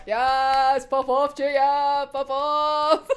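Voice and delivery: slow, drawn-out cheer; playful hype. Pretend. Cheering Chuya on from the sidelines, drawn-out hype. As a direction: stretch it out like a mock cheer.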